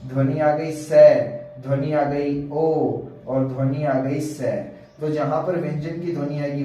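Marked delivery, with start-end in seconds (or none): 0.1-4.5 sounding out each letter: स, ओ, स; slow, careful letter sounds; sound demo. Shown as a demonstration. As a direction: spell out the sounds for the class. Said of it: "अब ध्वनि देखो क".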